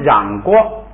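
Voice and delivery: 染锅 drawn out slowly, syllable by syllable; slow demo. Shown as a demonstration. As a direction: stretch 染锅 so the merged sound is heard. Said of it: "你看它就读成什么了". (放慢示范读成染锅)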